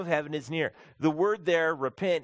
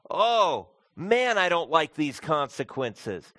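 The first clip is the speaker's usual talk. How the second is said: higher, louder whiny mock regret; mock sulky regret; 3 semitones higher, 5 dB louder, slower than usual. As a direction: ham up a sulky kid caught out.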